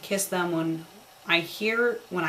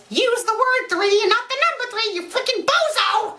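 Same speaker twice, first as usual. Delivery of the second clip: much higher and louder, exasperated; exasperated yell; 4 dB louder than usual. Real, not acted. Reader annoyed at the story's number, exasperated yell. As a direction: scold the writer like a bozo.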